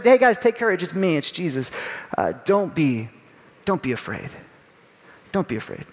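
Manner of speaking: calming. Acted. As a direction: settle the frightened men gently. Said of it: "Jesus tries to calm them down".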